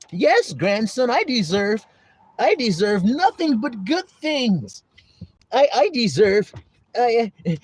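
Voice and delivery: self-entitled elder. Retold or imitated. Voices someone claiming they deserve better.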